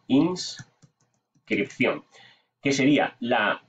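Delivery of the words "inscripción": Inscripción stretched very slowly, syllable by syllable; Inscripción spoken slowly and carefully; drawn out. Shown as a demonstration. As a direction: drag out Inscripción while typing it. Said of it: "eh, inscripción".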